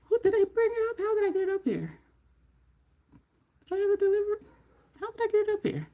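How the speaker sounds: quizzing herself in a high puzzled voice; puzzled self-questioning. Real, not acted. Trying to remember how the TV got upstairs, high and puzzled.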